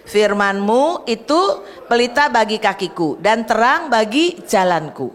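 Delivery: slow, deliberate reading of the verse together; reading scripture aloud. Shown as a demonstration. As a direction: read each word slowly to the congregation. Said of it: "Yuk baca yuk". (membaca ayat dengan pelan bersama jemaat)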